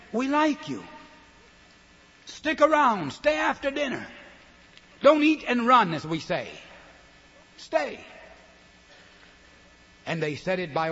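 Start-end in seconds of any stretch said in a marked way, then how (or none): 0.1-5.9 high, pleading invitation to stay; voicing the hosts' welcome. Host urging a guest to stay, high and pleading. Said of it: "It meant". 7.6-8.0 coaxing stay. Retold or imitated. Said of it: "It meant".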